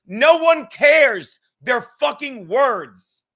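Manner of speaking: loud and very slow, hammering each word; real shout. Real, not acted. Shouting down the critics, loud and slow. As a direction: slam it down, word by word.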